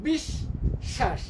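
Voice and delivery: বিষ, pause, শ্বাস; broken into syllables. Shown as a demonstration. Teacher splitting a word for spelling, syllable by syllable. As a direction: split the word after বিষ, each part said separately. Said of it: "syllable ভেঙে ভেঙে".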